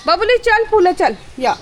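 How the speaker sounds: high, loud call to the pets; summoning pets on a rooftop. Real, not acted. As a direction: call the animals over from across the terrace. Calling pets on the terrace.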